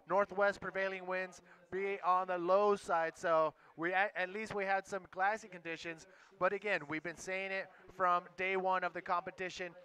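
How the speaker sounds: upbeat live sports host; broadcast host welcome. Acted. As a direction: welcome the audience on air.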